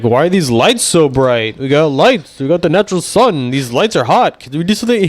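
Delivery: mock Trump complaining about the lights, rising pitch; mimicking Trump griping about stage lights; Trump impression.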